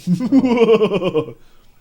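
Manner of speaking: loud villain cackle; evil laugh. Pretend.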